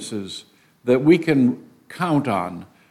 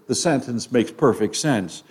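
ordinary talk

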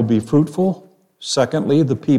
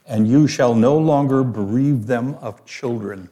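scripture reading. Acted. Reads scripture aloud.

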